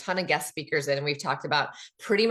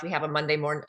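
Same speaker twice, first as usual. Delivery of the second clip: usual speaking voice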